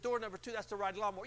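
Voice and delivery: announcer teasing the car prize to the caller; radio announcer. Retold or imitated. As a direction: hype the hidden car. Announcer checks her choice.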